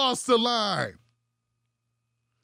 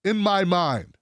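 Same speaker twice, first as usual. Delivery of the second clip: lower, measured read of a statement; quoted statement; 4 semitones lower than usual. Retold or imitated. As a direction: read the quoted words low and even. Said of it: "He says".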